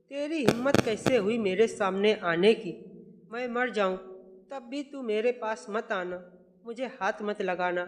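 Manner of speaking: how dare you, then shut her out; mother-in-law turning away her son's wife; angry rebuke. Acted.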